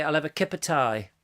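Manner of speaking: put-on lightly done Brummie accent. Quoting how locals order tea, Brummie accent. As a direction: say it as Brummies would. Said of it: "they would always say".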